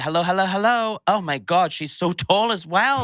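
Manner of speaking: high, overawed gushing; retold awe. Retelling first sight of towering RuPaul, high mock awe. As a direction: gush in a high voice as if starstruck.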